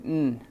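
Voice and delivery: "N" as a hummed nnn; held nasal consonant nnn for "N"; N sound. Shown as a demonstration. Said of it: "N sound".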